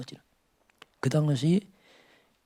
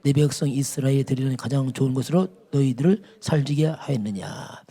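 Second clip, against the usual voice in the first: solemn, rebuking read of the verse; preacher reads God's rebuke to Eli; scripture reading; 3 dB louder than usual. Acted. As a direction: read God's reproach with gravity.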